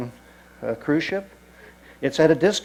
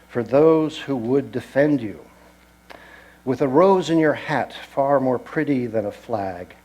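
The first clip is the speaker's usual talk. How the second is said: poem recitation. Acted. Guide recites Saint-Malo graffiti to tour group, solemn verse reading. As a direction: read it out like a heartfelt poem.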